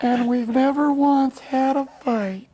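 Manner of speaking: put-on high, loud proud boast of an old couple; bragging grandparents. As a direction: lay it on thick like a smug old-timer. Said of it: "they would always brag".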